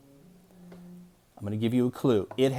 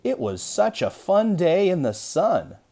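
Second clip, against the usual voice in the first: much higher, louder, slower and bubbling over; hammed-up excitement; 8 semitones higher, 4 dB louder, slower than usual. Shown as a demonstration. Teacher demonstrating an exclamation mark with big excitement. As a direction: overdo the excitement for the kids. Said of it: "we're just supposed to be a little excited about".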